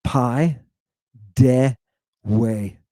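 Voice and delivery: Pi, de, we as separate syllables, the last with a w sound; Pi... de... we, the digamma said as w. Shown as a demonstration. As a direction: break paidewe into pi, de, we with pauses between. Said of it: "I'm using my digamma".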